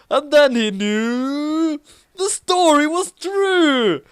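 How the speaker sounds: high, loud, slow dramatic reveal; frantic twist. A narrator's reading. Storyteller revealing the twist, high and loud. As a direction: build to the twist and land it.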